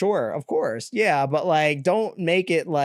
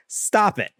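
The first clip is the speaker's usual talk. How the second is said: real anger; 4 semitones higher than usual. Real, not acted. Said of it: "I'm getting mad".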